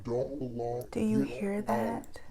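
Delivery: slow, hushed whisper in the dark; scared whisper. Retold or imitated. A girl asking her sister in the dark, scared whisper. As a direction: whisper so the ghost won't hear. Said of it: "say to my sister".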